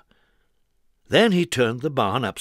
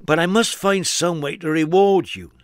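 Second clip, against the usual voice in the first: higher, louder insistent thanks; grateful farmer; 5 semitones higher, 4 dB louder than usual. Acted. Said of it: "said the farmer".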